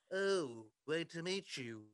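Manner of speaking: A singer impersonator's Liverpool greeting; goofy Liverpool accent. Retold or imitated. Impersonator greeting people in line, goofy Liverpool accent. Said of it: "this goofy Liverpool accent".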